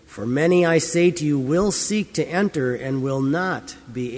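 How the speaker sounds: measured, solemn Bible reading; scripture reading. Acted. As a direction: read the Gospel aloud to the congregation. Scripture reading before the sermon.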